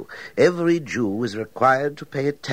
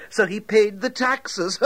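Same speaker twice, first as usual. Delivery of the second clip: gloating; 9 semitones higher than usual. Acted. Collector gloats over trap.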